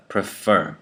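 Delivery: "prefer" as pruh-FER; unstressed schwa first syllable. Shown as a demonstration. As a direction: reduce pre to a schwa and stress fer in "prefer". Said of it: "becomes the schwa sound".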